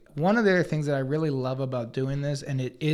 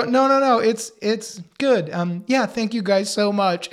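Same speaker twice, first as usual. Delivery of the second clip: polite brush-off; 5 semitones higher, 3 dB louder than usual. Retold or imitated. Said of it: "then she would go".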